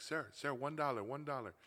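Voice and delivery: a hint of a street seller pitching; vendor calling out. Street vendor calls to tourists, mildly pitchy. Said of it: "They're like".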